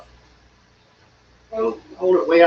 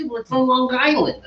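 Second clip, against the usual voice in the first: higher mock Long Island accent; 5 semitones higher than usual. Teasing that Long Islanders aren't tough, mock Long Island accent. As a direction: put on a Long Island local. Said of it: "Long Island doesn't sound like".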